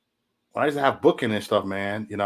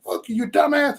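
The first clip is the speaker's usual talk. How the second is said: mock insult; 14 semitones higher than usual. Acted insult during a beef.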